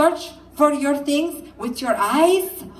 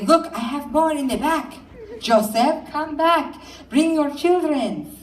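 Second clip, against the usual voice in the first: creepy stranger; 5 semitones higher than usual. Retold or imitated. Stranger luring kids.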